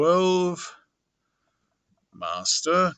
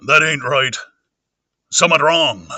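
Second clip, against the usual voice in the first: rustic character voice, louder; Mister Hall; 5 dB louder than usual. Acted. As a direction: put on a countryman's suspicious voice. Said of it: "Okay, Mister Hall".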